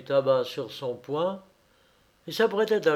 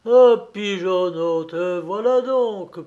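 high, loud bird-beak mimicry; storybook bird voice, raised pitch; cheeping bird; 5 semitones higher, 8 dB louder than usual. A narrator's reading. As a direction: pipe it up like a bird. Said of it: "Piola! Un bec d'oiseau".

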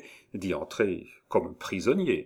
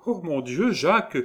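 put-on high, concerned young woman's exclamation; tender compassion; 9 semitones higher than usual. A narrator's reading. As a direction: pity him, alarmed for him. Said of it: "avec un mouvement plein de tendre compassion". (tendre compassion, voix aiguë)

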